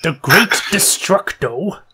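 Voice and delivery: slow, puzzled question; perplexed. Acted. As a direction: repeat the name in disbelief. He seems perplexed.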